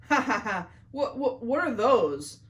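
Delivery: laughing in disbelief. A narrator's reading. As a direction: laugh through the words, baffled. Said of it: "laughed Greg".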